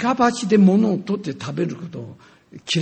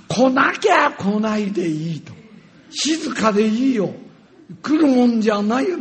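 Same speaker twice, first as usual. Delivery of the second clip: retold defiant retort; 4 semitones higher, 4 dB louder than usual. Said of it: "すると私も".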